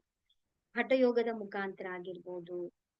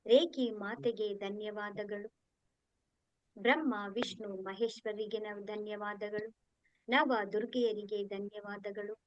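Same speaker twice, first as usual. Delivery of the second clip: measured litany with a repeated cadence; steady devotional recitation; prayer of thanks. Real, not acted. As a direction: recite each thanks evenly, like an opening prayer.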